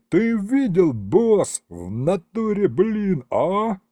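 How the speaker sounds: high-pitched thrilled boasting; elated yelling. A narrator's reading. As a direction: crow to the boss in delight. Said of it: "заорал что-то восторженное".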